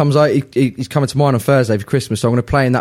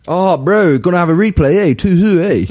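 hammed-up New Zealand accent; requested Kiwi version; 3 semitones higher than usual. Guest redoing his prediction for the host, mock Kiwi accent. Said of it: "can we have the Kiwi version".

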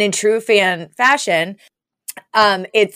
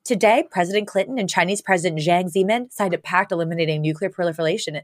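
a hint of a newscaster read, softer; mock newscaster; 5 dB quieter than usual. Girl rehearsing a newscast for a friend's audition, mock anchor voice. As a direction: lightly play anchor reading the headline. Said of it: "you're gonna be the newscaster".

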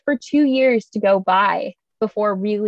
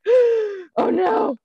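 mock panic; 3 semitones higher than usual. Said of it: "were like, gasps".

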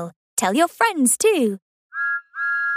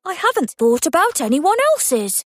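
Thomas voice; 2 semitones higher than usual. Acted. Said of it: "said Thomas".

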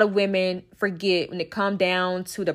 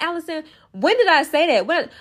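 higher-pitched imitation of a puzzled friend; mock questioning; 8 semitones higher than usual. Friend challenging her about an old grudge, mock questioning. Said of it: "you may be like".

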